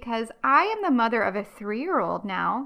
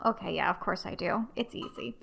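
ordinary talk, nothing marked

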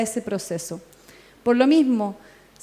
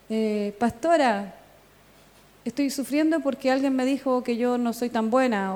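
imitating congregant. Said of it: "que no me salga la imitación".

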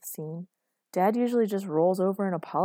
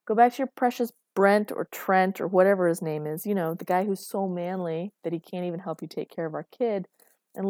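scornful taunt; 4 dB louder than usual. Acted. Acted quarrel, taunting about rival.

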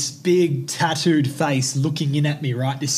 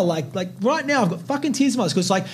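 real tears welling, voice pushed higher; tearful; 6 semitones higher than usual. Real, not acted. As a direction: choke up while pushing through. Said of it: "big tear smiles right now".

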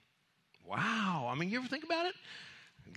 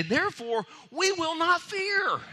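high, loud, slow proclamation; loud declaration; 7 dB louder, slower than usual. Shown as a demonstration. Preacher giving the church its line, loud and slow. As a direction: shout it as the church's confession. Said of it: "that's what we need to say".

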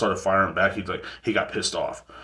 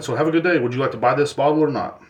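high, louder, sarcastically bright send-off; mock cheery dismissal; 6 semitones higher, 6 dB louder than usual. Clerk dismissing a haggling customer, loud, high, fake cheerful. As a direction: shoo him out with fake cheer.

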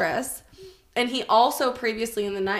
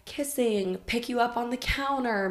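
ordinary talk

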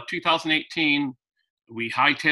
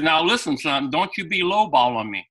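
light Southern; 3 semitones higher than usual. Retold or imitated. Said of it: "I can't do a good Southern accent".

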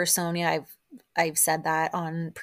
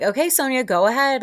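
mock exasperation; 6 semitones higher, 7 dB louder than usual. Acting out the exasperated group.

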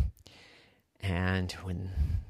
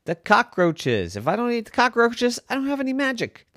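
a lightly higher, fast zebra; 7 semitones higher than usual. A narrator's reading. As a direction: rattle off the magic secret quickly. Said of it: "his magical zebra said".

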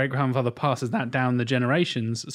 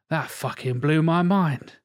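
higher, incredulous quote, rising as it goes; amazed retelling; 4 semitones higher than usual. Retold or imitated. Son retells his dad's astonishment at the accents, amazed. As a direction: blown away, imitating an astonished dad.

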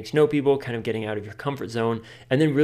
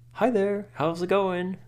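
much higher cooing voice for a dog; waving at a dog and cooing hello; talking to a dog; 9 semitones higher, slower than usual. Retold or imitated. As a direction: greet a dog in a high, cutesy voice. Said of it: "in that voice".

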